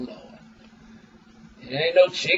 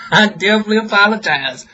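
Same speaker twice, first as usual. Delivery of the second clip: laughing apology; 2 semitones higher, faster than usual. Real, not acted.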